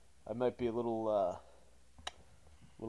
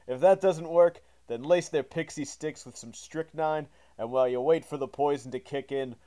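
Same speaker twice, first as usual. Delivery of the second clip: announcer intro; 4 dB louder than usual. Acted. Reads the show intro.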